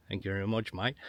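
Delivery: softly put-on Aussie thanks; low, quiet mock-Australian; Australian accent. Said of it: "'cause I'm dealing with an Australian".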